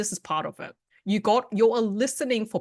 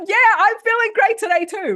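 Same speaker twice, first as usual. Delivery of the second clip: matching energy; 12 semitones higher, 8 dB louder than usual. Retold or imitated. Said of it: "it's like".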